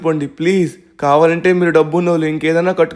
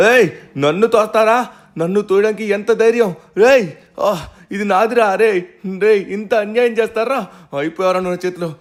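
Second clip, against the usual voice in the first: higher, furious protest at being pushed away; outraged shouting; 4 semitones higher than usual. Acted. Owner pushed off his tree house by the president's son's men, raging higher. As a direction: hurl the injustice back at them.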